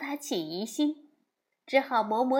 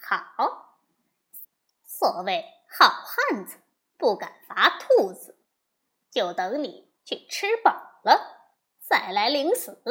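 laughing reply; 4 dB louder than usual. Acted. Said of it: "悟空笑说".

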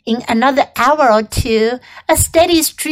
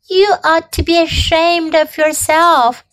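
disgusted; 4 semitones higher than usual. Acted. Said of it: "said Charlotte in disgust".

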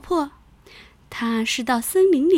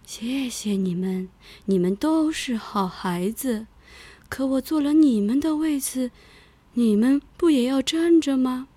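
put-on kind old bear grandma. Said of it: "熊婆婆说".

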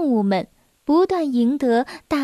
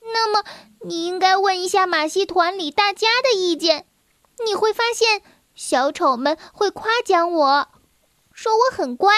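higher, lightly voiced eager child; little girl voice; 4 semitones higher than usual. Girl urging the lion to ask the circus, higher child voice. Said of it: "米奴斯又说".

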